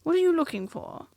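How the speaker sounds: fussy curiosity; inquisitive Rabbit. A narrator's reading.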